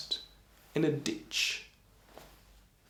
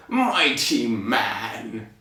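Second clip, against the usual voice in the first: very slow, lower giant voice; giant's new voice; 4 semitones lower, much slower than usual. Acted. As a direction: stretch it right out as a ponderous giant. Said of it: "but this is his voice now".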